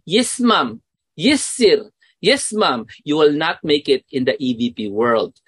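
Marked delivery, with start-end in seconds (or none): 0.0-2.9 timid yes-man. Retold or imitated. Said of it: "if you are like this".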